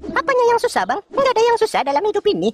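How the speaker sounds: a lightly voiced sermonizing cow; preachy cow voice. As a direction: lecture like a pious elder. Cow character preaches wisdom.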